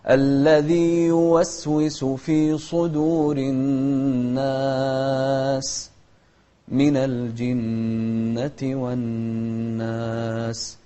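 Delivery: slow melodic chanted recitation; Quran recitation. Shown as a demonstration. Teacher reciting the verse for the child to repeat, slow melodic chant. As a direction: chant the verse slowly, stretching vowels.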